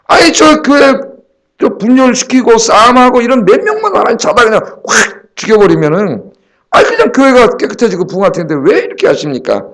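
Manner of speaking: pleading protest to God, starting high; retold complaint. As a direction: argue with God, opening high then easing. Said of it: "그런 생각을 해본 적이 있어요". (하나님께 하소연하듯 따지는 말투)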